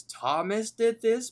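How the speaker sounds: angry repeat. Retold or imitated. Muscle Man repeats it, now angry. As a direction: snarl the name in mock anger. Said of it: "in a more anger, angrily voice".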